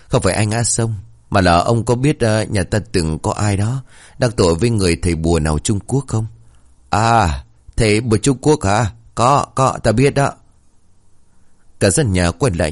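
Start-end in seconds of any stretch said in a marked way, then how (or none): 0.1-6.3 raised higher, louder repeat; louder for a deaf old man. Acted. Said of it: "Ông cụ chưa nghe thủng hỏi lại". 6.9-10.3 put-on higher, eager old man's voice; a mishearing old man, suddenly keen; excited old man; deaf old grandpa.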